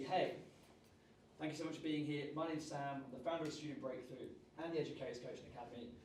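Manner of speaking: upbeat, energetic speaker intro; high energy intro. Shown as a demonstration. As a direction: open with big energy. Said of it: "we start with very high energy".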